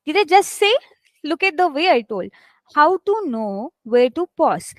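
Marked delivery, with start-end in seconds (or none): 2.7-4.7 "How to know", small pause, "where to pause"; small pause before the end. Shown as a demonstration. Teacher demonstrating pausing to students, small pause mid-question. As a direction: leave a short gap after KNOW. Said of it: "I gave a small pause".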